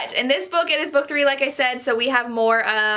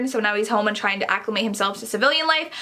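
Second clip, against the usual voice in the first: ordinary talk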